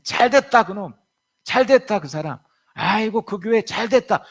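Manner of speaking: high, loud mocking glee at their downfall; gloating. Pastor mocking a gloating churchgoer, high loud jeer. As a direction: sneer loudly that it served them right.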